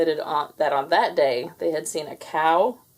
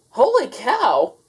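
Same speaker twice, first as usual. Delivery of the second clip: second holy cow; 7 semitones higher, 6 dB louder, slower than usual. A narrator's reading. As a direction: say it again just as he means it. Same words, his thought.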